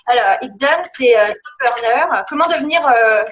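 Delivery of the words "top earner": English accent. Shown as a demonstration. A French coach tries top earner in an English accent. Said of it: "un pauvre accent anglais".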